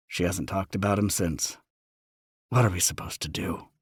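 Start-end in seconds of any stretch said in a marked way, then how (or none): 2.5-3.7 rough, broken voice. Acted. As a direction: break on it. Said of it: "rough and broken".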